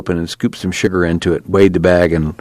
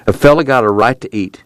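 mild belligerence; 4 semitones higher than usual. Acted. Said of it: "then belligerently".

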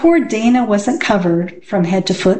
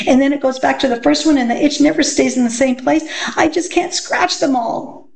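put-on high, fast, run-on child's complaint; frantic itchy schoolgirl; 6 semitones higher, faster than usual. A narrator's reading. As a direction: rattle it off high and fast, as if itching all over.

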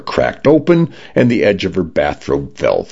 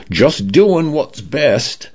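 slow, pitched-up light Cockney; soothing Cockney smart home; a hint of Cockney, unhurried; Cockney condo voice; 9 semitones higher, slower than usual. A narrator's reading. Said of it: "male British voice ... Cockney accent".

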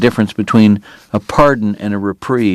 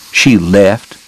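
snapped; 3 dB louder than usual. Acted. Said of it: "Doc snapped".

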